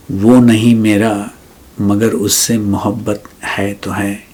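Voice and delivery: measured verse reading with pauses; poetry recitation. Acted. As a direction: recite the last couplet, letting each refrain fade. Recites a ghazal as poem.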